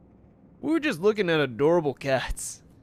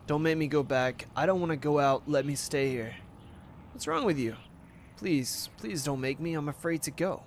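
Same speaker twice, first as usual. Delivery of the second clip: lightly voiced scared girl; 5 dB quieter than usual. Ruby begs not to go.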